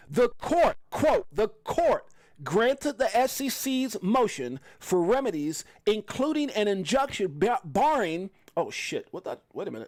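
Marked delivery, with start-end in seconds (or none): 0.2-8.3 slow, careful, deliberate word-by-word reading. Reading an SEC court statement aloud to listeners, reading slowly. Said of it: "I'm going to read it slow".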